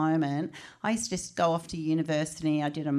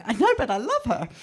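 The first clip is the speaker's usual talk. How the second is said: affectionate; 6 semitones higher, 5 dB louder than usual. Retold or imitated. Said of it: "And I'm going".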